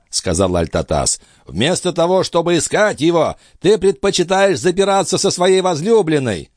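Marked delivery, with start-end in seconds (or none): 1.5-6.5 put-on high, strained old man's voice; old master's voice. A narrator's reading. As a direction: play the frail, urgent old alchemist. Althotas speaks.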